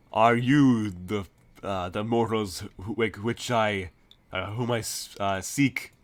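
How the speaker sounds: slow, loud, stuttering monster voice; a giant monster stumbling over words; booming Kraken voice. Acted. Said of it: "they're like".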